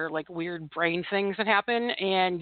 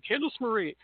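lightly voiced mother using the full name; mock mother's scolding; 4 dB quieter than usual. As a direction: imitate a mother calling out her child, mildly. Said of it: "that's what my mother would do".

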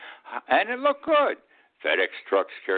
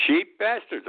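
"Cheap bastards" flung out much higher, with contempt; scornful outburst; 14 semitones higher, slower than usual. Shown as a demonstration. Host scorning senators over stimulus, contemptuous. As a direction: spit out "Cheap bastards" in disgust. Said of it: "I'm gonna say it that way".

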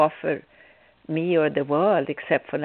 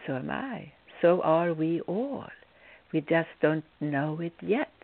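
softer, matter-of-fact calm reply; 3 semitones lower, 4 dB quieter than usual. Retold or imitated. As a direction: answer calmly, without any fuss. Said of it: "I just calmly said".

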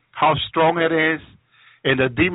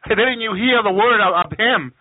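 lightly voiced devil, higher pitched taunt; mildly mock the victim, pitched up; Satan; 4 semitones higher than usual. Satan scolding the witch who believed him, lightly voiced taunt. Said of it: "Satan will have this evil laugh".

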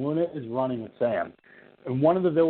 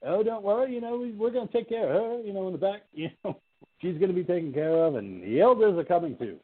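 much higher, oily reassuring cop voice; shady cop; 7 semitones higher than usual. Retold or imitated. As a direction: fake reassurance from a sinister cop, quick. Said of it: "he's like".

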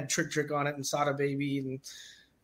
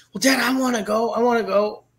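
lightly voiced pleading kid, higher and louder; a hint of an eager little boy; eager son; 5 semitones higher, 6 dB louder than usual. Son begging dad to bring him along, lightly voiced eager kid.

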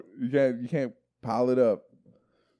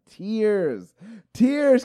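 mock wail; 8 semitones higher than usual. Daughter bursting into tears retold.

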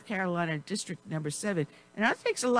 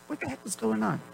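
mock alarm; 6 semitones higher, faster than usual. Real, not acted. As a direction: announce it in mock panic. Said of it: "I got covid".

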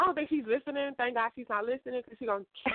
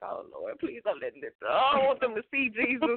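mock panicked prayer. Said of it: "you kinda get embarrassed".

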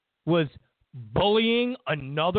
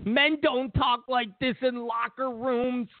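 mocking quote; 4 semitones higher than usual. Mocking others' claim about locker rooms.

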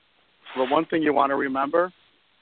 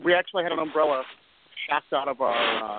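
staticky line, fading in and out; crackly cordless phone. Real, not acted. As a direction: voice breaking up with static. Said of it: "but it's very staticky".

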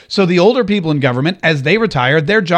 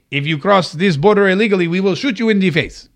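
mock Mexican accent, hammed-up sign reading; horrible Mexican accent. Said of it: "it's a horrible Mexican accent".

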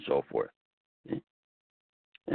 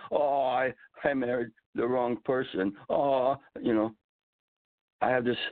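whiny woe-is-me lament; dramatic sigh; 3 semitones higher than usual. Retold or imitated. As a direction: sigh it out like a self-pitying victim. Mock complaining victim, woe is me.

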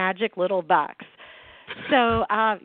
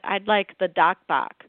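put-on Boston accent; slower than usual. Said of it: "she said".

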